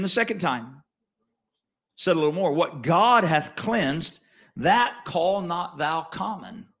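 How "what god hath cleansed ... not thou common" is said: voice of God. Acted. The voice speaks the second time.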